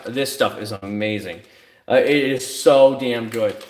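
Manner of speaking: slow, relishing praise; savoring a smell. Real, not acted. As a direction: savor every word like a scent. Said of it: "a banana smell to it".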